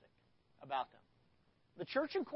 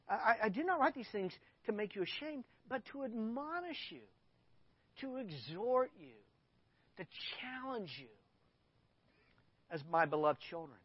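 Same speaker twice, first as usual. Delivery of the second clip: from the heart; 3 semitones higher than usual. Acted. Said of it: "speaking from the heart".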